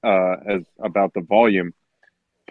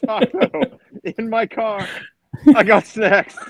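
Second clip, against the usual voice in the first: very high, giggly quoting; laughing imitation; 12 semitones higher, slower than usual. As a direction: squeak the quote out through laughter. Laughing repeat of clip's lines.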